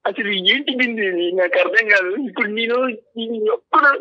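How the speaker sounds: pleading through tears; tearful, begging her not to leave; crying. Real, not acted. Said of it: "అలా ఏడవకు గోపాల్". (ఏడుస్తూ బతిమాలుతూ)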